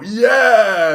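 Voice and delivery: high, loud cheering yell; mock cheer. Picturing everyone throwing masks in the air, loud cheer. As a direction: cheer like tossing caps at graduation. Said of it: "We were all gonna go".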